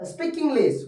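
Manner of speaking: "speak" stressed high; emphatic speak. Shown as a demonstration. Teacher showing emphatic do to students. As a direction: push "speak" up. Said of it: "जोर डालकर बोला जाता है".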